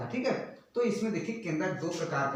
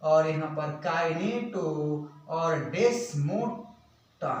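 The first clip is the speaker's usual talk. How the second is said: slow, segmented spelling-out; letter by letter, drawn out; slow dictation; 2 semitones lower, much slower than usual. Real, not acted. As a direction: dictate slowly for note-takers. Spelling out a term for students.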